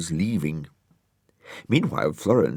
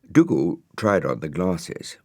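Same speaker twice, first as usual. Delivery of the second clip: usual speaking voice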